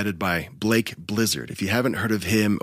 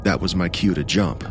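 measured creepypasta storytelling; narrator voice. Acted. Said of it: "Let me put my narrator voice on".

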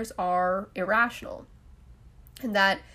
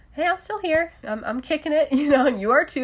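upbeat; 7 semitones higher, 6 dB louder than usual. Real, not acted. Cheerful upbeat reassurance.

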